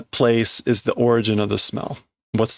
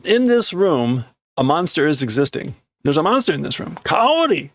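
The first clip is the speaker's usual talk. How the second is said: man warning Kaori, higher; translated in character; 4 semitones higher than usual. Acted. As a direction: carry the panic into English.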